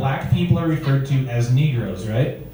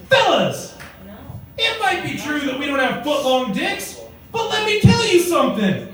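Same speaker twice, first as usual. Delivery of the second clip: put-on wise old gent; 8 semitones higher than usual. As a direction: rise and proclaim like the village elder. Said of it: "one wise old gent at the back".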